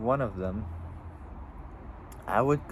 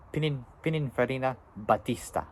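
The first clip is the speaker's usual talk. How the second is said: Italian accent; 3 semitones higher than usual. Shown as a demonstration. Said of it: "I'll do it in Italian accent".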